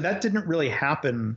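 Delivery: plain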